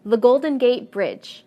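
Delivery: the Golden Gate BRIDGE, weight on Bridge; the Golden Gate Bridge, punching the final word Bridge; stress on last segment. Shown as a demonstration. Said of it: "stress is always at the end".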